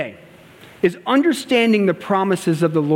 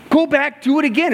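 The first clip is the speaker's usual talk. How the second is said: firm command; 7 semitones higher than usual. Retold or imitated. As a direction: push them back out firmly. Repeats the order forcefully.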